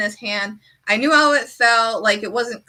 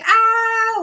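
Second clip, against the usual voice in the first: mock crying; 11 semitones higher, 4 dB louder than usual. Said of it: "crying over it".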